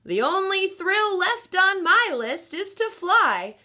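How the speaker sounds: put-on wistful old aunt longing for the sky; mildly sad elderly aunt voice; lightly voiced old aunt. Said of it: "She gave a sad smile".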